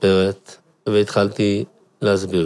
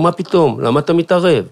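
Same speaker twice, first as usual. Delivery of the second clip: indignant shout; 9 semitones higher, 4 dB louder than usual. Retold or imitated. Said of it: "והוא אומר".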